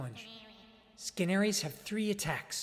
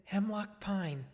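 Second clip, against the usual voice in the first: slow solemn naming; 3 semitones higher, slower than usual. Retold or imitated. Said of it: "and I said".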